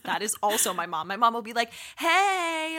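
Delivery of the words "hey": high, loud hey; a mom yelling hello over Bluetooth, loud and high; loud greeting. Retold or imitated. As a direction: belt a hello down the line.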